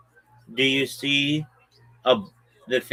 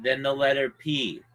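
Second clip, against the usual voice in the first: spelling it out; 4 dB quieter than usual. Shown as a demonstration. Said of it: "I'm spelling it for you".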